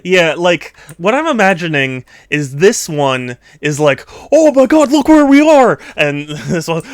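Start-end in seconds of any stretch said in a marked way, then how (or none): 4.3-5.8 high, loud excited squeal; thrilled squeal. Pretend. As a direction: gasp it out like a wide-eyed tourist. Voicing excited characters in picture.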